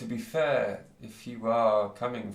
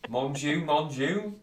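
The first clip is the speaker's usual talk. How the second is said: loud, high mock French accent; mimicked French accent; 6 semitones higher, 6 dB louder, slower than usual. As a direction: exclaim in a hammed-up French accent, rising. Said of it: "could you all mimic her?".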